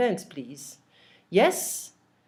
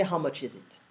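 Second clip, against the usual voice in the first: natural English version; 5 semitones lower, 7 dB quieter than usual. Shown as a demonstration. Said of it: "so we're gonna say".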